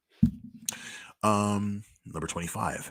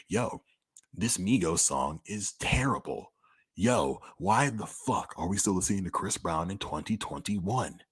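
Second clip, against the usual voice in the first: mock radio rant; 3 semitones higher, 5 dB louder than usual. Imagined DJ ranting on air, louder and blunt. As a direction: play the outspoken DJ trashing songs. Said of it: "That's the kind of shit I wanna say".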